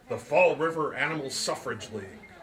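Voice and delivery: grand movie headline read; headline announcer voice. Shown as a demonstration. Narrator reading the sign aloud, as a movie headline. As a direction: announce it like a newsreel title. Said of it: "That's what they do in movies when they're reading headlines".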